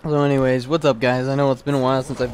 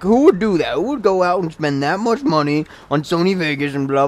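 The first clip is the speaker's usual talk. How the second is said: lightly mocked indignation, raised pitch; mildly imitated pissed-off kid; 4 semitones higher than usual. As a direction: retell his outrage with some mockery. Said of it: "he got all pissed off".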